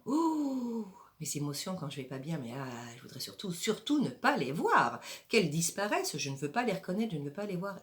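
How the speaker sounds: a hammed-up whine, refusing to look at feelings; playing the reluctant inner voice, half-whining; mock whiny refusal. Acted inner voice refusing emotions. (petite voix plaintive qui refuse de voir ses émotions, jouée)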